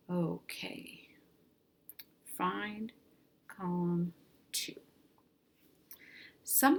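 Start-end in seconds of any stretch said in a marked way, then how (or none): 0.1-4.7 whisper. Real, not acted. Quiet aside between columns.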